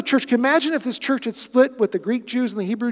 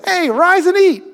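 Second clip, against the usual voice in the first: higher, louder call from above; voice of God; 9 semitones higher, 6 dB louder than usual. Acted. God calling down to Peter, commanding from above. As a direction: boom out the command from heaven. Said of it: "And God says".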